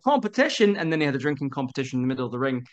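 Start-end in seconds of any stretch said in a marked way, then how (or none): 0.0-0.8 put-on drunk Viking perks up. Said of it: "And he went".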